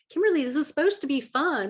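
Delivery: a hint of a reassuring partner. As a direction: gently remind her it should be fun. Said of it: "And he's like".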